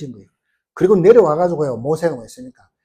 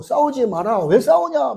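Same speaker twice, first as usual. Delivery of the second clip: retold scolding; 7 semitones higher, slower than usual. Moses telling his kinsmen to stop fighting, retold higher-pitched scolding. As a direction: act out breaking up a quarrel.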